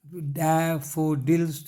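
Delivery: डैफोडिल्स in three distinct beats, daf-fo-dils; three-syllable split. Shown as a demonstration. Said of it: "तीन syllable है".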